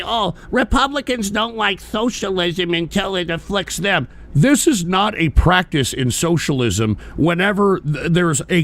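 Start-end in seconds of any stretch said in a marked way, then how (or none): 0.0-4.1 a hint of a whiny, mocking Democrat voice. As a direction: lightly sneer it as the other side would. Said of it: "they always like to say".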